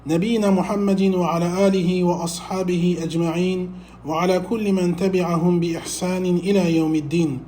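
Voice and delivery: rapid, even-pitched Arabic invocation; measured rise and fall kept very small; formal sermon opening. Acted. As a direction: recite the opening praise in a quick, level flow. Recites opening praise formula.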